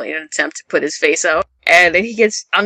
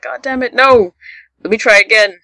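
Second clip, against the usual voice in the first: mock frustrated outburst; 5 semitones higher, 4 dB louder than usual. Gon frustrated in ring.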